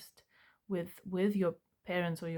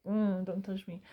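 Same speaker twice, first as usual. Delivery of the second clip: recoiling refusal. Shown as a demonstration. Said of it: "like you want to do this".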